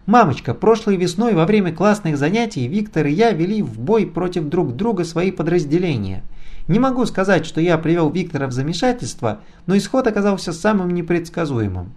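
high falsetto cadet impression; falsetto mimicry. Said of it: "Виктор заговорил фальцетом, как Чира".

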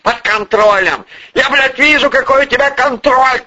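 high, angry echo of his words; furious mockery. A narrator's reading. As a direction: throw it back in scornful anger. Boss mocks subordinate's assurance.

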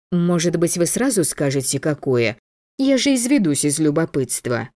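coquettish. Acted. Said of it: "чисто по-женски решила аргументировать я".

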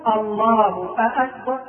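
أكبر begun on a long questioning aa; slow mistaken takbir, aakbar; wrong opening vowel. Shown as a demonstration. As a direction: draw out the first vowel of أكبر as if asking. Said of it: "لأنه يقول".

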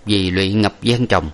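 ordinary delivery, nothing marked

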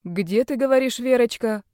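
a lightly voiced creaky old man. Doctor suddenly asks about Verochka, lightly creaky old voice. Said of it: "спросил доктор скрипучим голосом".

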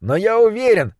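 muffled behind door. Acted. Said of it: "глухо послышался голос Кита".

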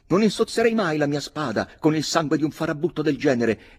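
acuta e più forte, altezzosa; esclamazione sdegnata. A narrator's reading. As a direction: proclama con disprezzo. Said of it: "esclamò milord George". (milord George esclama sprezzante, alto e forte)

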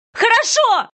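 very high, loud yell of surrender; mother giving in to save her daughter, crying out; desperate cry. Acted. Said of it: "выкрикнула я отчаянно".

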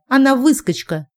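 high indignant scolding; indignant outburst. Acted. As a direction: rise up in outrage. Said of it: "взвилась Линда". (возмущённый крик)

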